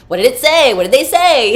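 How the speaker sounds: loud, high-pitched pestering questions; excited mock demand. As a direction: blurt it out, hammed-up and eager. Acting eager questions, correcting the pronoun.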